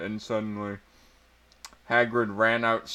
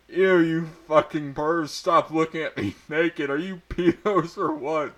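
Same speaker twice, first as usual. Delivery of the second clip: high, loud disgusted yell; screaming; 6 semitones higher, 3 dB louder than usual. A narrator's reading. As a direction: scream it at the peeping pervs. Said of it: "I screamed".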